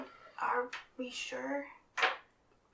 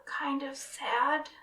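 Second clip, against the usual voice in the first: whisper yelling. Acted. Whisper yells.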